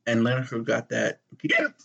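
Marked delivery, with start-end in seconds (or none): 1.4-1.7 talking through hiccups; hiccuping. Real, not acted. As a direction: hiccups breaking in. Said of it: "You sound like a fucking baby with the hiccups".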